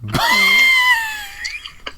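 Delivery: a high shrieking laugh of disbelief. Real, not acted. Disgusted shriek at beef tongue.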